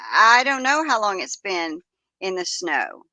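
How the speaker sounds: a little weepy, voice breaking; tearful. Retold or imitated. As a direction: let a sob catch in the words. Distressed caller retold.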